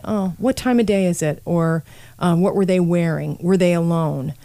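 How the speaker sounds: imitating detectives' even, neutral questioning; calm monotone. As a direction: keep it level and give nothing away. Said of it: "in a very, you know, calm monotone".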